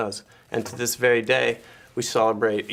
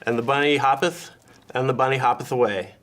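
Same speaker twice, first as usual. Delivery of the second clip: mock scripture reading. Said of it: "a quote from Psalms".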